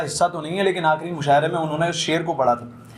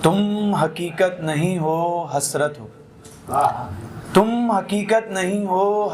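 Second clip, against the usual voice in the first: Jaun Elia recitation style; slower than usual. Retold or imitated. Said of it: "इस गज़ल को पढ़ते हैं कुछ इस तरीके से".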